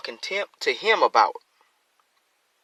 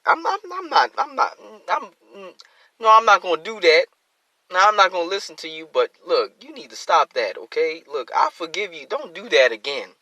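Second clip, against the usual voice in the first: hesitant, then quick and firm; a friend who forgives but warns; lightly acted forgiving friend; 3 semitones higher than usual. A friend pleading, then quickly forgiving, lightly acted. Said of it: "acted forgiving reply".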